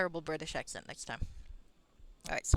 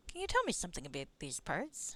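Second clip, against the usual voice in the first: a touch of bad Canadian accent; terrible Canadian accent. Bullfrog asks about the area, in a hint of Canadian accent. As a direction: ask like a badly faked Canadian. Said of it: "Terrible Canadian accent".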